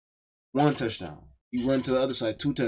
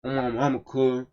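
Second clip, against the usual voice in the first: imitating fake hood thugs, a little livelier; mock hood-thug talk. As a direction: do a hint of a wannabe thug. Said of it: "they do this, they do this".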